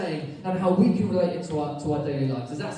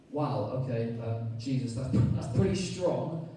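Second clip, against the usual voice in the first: humbled reply; 7 semitones lower, 6 dB quieter than usual. Acted. Voicing humbled leader.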